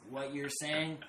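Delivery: exasperated insistence. Retold or imitated. Telling her the cat doesn't care, loud exasperation. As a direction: hammer each phrase home loudly.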